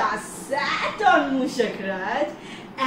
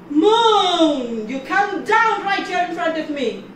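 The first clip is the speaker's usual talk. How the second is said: furious command; 4 semitones higher, 5 dB louder than usual. Acted. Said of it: "Lord Ganesha was now furious".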